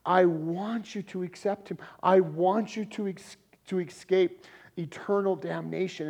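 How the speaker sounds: imploring, with heartfelt emphasis; pleading. Retold or imitated. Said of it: "of pleading".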